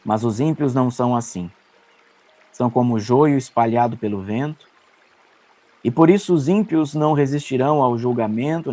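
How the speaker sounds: psalm read aloud in measured phrases; solemn scripture delivery, slightly lifted. Acted. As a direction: proclaim the verses with deliberate pauses between them. Resumes reading the psalm.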